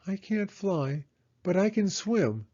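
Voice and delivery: a plucky hedgehog answering back; Hedgehog's voice. A narrator's reading. Hedgehog answering Owl, high and plucky.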